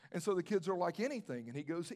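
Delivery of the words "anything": kids' retold question, a touch higher; lightly incredulous echo of the offer. Kids question the store owner's offer.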